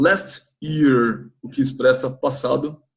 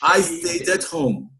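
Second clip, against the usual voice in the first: slow model; slower than usual. Shown as a demonstration. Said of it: "Então vamos lá".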